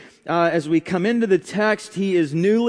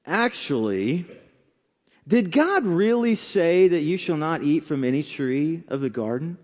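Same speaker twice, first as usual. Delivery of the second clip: insinuating serpent; 3 semitones lower than usual. Acted. Serpent coming up to Eve, mildly insinuating. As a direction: slip in doubt with a hint of a sly questioning tone. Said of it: "picture the serpent coming up to Eve going".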